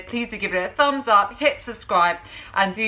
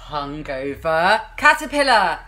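a sly pun on hungover; stress on hungover; 2 semitones lower, 3 dB louder than usual. Shown as a demonstration. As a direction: lean on Hungover as the punchline. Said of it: "not hungry, but hungover".

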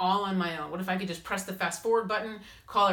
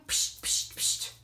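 gut kicks; slower than usual. Pretend. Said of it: "your higher self saying".

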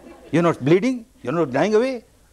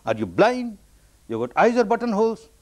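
mild mock shout, pitched up at the end; retold angry shout; 6 semitones higher than usual. Struck passer-by abuses the walker, higher-pitched mock shout. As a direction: imitate an abusive passer-by's shout without much volume. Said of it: "he shouts the same language, the same words, the same tone".

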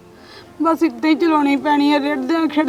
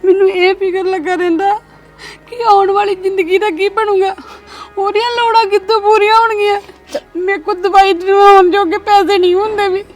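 higher, louder tearful lament; crying; 4 semitones higher, 3 dB louder than usual. Acted. Telling her sister about her hopeless future, crying and lamenting. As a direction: wail out her worries through tears. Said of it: "ਰੋਣ ਕਿਉਂ ਡਈ ਆ?".

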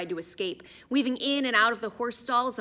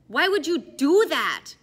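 slow, higher, disbelieving voice; incredulous warrior; 7 semitones higher, 9 dB louder, slower than usual. Acted. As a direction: drag it out in disbelief. Smaller Mongol appalled.

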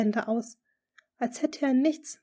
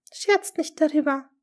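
trembling voice; 7 semitones higher, 6 dB louder than usual. A narrator's reading. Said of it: "mit zitternder Stimme".

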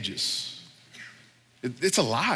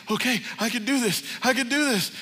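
tag; 8 semitones higher than usual. Retold or imitated. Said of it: "He's like".

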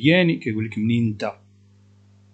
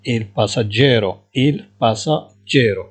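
each syllable drawn out, slowly; slow dictation; 4 dB louder, much slower than usual. Shown as a demonstration. Teacher to Moroccan students, slowly dictating Italian. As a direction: spell it out slowly for learners. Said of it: "teacher dictating Italian words".

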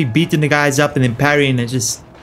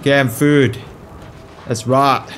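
lightly imitated Australian accent; bad Aussie accent; much slower than usual. Player echoing the game's hero, rough Australian accent. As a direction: echo it in weak mock Aussie. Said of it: "my Australian accent sucks".

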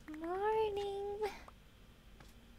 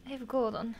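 whisper; 4 semitones lower, faster than usual. Real, not acted. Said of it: "whispered reassurance".

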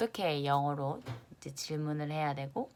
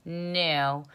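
American new; much slower than usual. Shown as a demonstration. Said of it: "미국식은 new라고 합니다".

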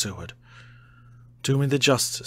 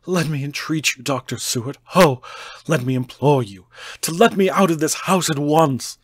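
rising, louder desperate begging; a madman begging to be let out, building to a shout; frantic pleading; 3 semitones higher, 7 dB louder than usual. A narrator's reading. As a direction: plead on your knees, growing louder and higher. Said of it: "poured forth a torrent of entreaty".

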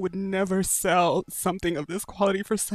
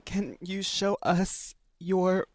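slow halting; slower than usual. Real, not acted. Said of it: "I can't even say it".

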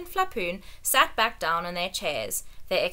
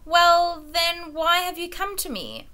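kindly; 10 semitones higher, 5 dB louder than usual. Acted. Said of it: "as kindly as he knew how".

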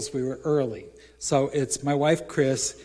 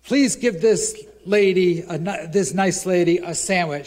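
fawning request; 5 semitones higher, 7 dB louder than usual. Retold or imitated. Fawning to clerk.

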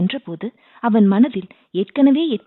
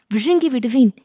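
shouted threat; 4 semitones higher than usual. Pretend. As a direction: yell it to scare him. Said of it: "என்று கத்தியவுடனே". (உரக்க கத்திய மிரட்டல்)

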